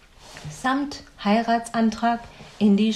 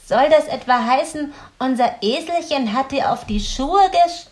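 lachend; 5 semitones higher, 6 dB louder than usual. A narrator's reading. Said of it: "lachte sie".

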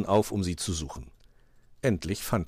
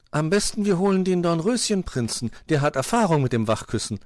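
high, loud, eager chirp; little bird; 10 semitones higher, 5 dB louder than usual. A narrator's reading. Zwitschi suggests fetching the prince, chirping high. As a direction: pipe up with a bright idea. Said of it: "meinte Zwitschi".

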